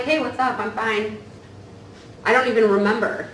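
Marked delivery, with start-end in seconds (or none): 0.0-1.2 breezy brush-off. Retold or imitated. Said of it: "And I'm like".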